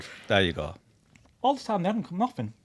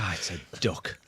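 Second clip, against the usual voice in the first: unsurprised; 6 semitones lower, 8 dB quieter than usual. Retold or imitated. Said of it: "He wasn't even that surprised".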